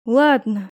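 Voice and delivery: grumbling. Acted. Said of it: "проворчала я".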